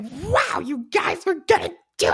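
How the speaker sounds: silly, swooping, tiny toad character voice. Describing their overly enthusiastic past self, the speaker slips into a little toad voice. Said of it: "I don't know what the fuck that voice was".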